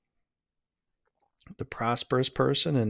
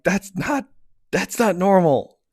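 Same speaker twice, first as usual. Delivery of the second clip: retold disbelief; 6 semitones higher, 6 dB louder, slower than usual. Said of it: "I'm like".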